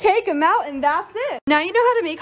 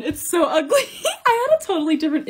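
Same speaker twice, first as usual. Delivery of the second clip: laughing. Real, not acted. Fridge decoration gone wrong.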